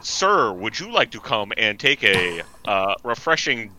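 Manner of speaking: halting, badly faked Minnesotan; bad Minnesotan accent. Local invites the stranded stranger in, bad Minnesotan accent. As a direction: feel your way through a mock Minnesotan accent. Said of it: "it's Minnesotan, but really badly".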